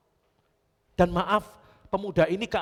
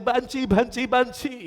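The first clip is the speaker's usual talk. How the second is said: mock taunt; 7 semitones higher, 5 dB louder, slower than usual. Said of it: "semua orang mengatai saya".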